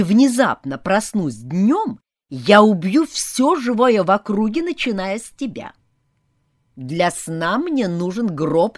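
loud, arrogant vampire master; commanding vampire. Acted. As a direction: bark the rules like a vampire lord. Vampire lays down rules.

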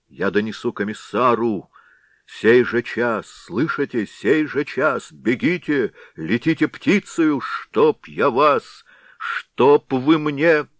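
slow, loud, choked-off rage; sputtering fury. Acted. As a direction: sputter orders, too angry to finish. Head orders them off, sputtering. (Голова в бешенстве гонит десятских)

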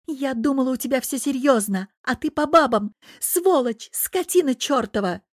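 high loud enraged shouting; furious yelling. Acted. Jealous girlfriend yelling at the devil, loud fury. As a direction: rage at him at full voice. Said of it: "орала девушка".

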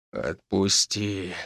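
low, slow and soft hoarse command; hoarse rasp. Acted. The major to the villain, low hoarse rasp. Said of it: "прохрипел майор".

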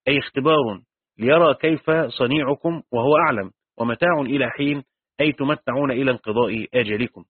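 measured classical Arabic recitation of a commentary; قراءة متأنية لنص تراثي; formal text reading. Acted. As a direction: read the old text steadily, like a teacher reciting from the book. Reads tafsir text aloud.

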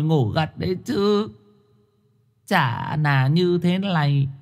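high, soft whining complaint; whiny lament. A narrator's reading. Woman laments to Thơm, high soft whine. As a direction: moan and plead innocence. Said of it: "Mụ than thở".

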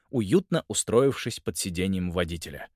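ordinary delivery

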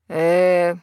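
a drawn-out, level "Э". A narrator's reading. Yunshen interrupts the quarrel, drawing it out. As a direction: stretch the sound hesitantly. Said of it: "протянул Юншен".

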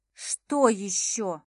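slow, loud, growled question; near growl. Acted. Heroine barely holding back from attacking Max, slow growl. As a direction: drag it out through clenched anger. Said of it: "практически прорычала я".

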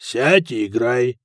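slow, unruffled order; composed, drawn-out command; calm. A narrator's reading. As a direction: order it calmly, without hurry. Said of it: "спокойно сказал Хакон".

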